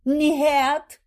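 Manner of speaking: high, loud cry of no; wife refusing an ambulance; frantic refusal. A narrator's reading. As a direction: refuse in panic.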